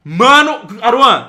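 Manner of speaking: loud drawn-out call to a friend. Real, not acted. Gamer calling his friend loudly to look. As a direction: call his name across the room.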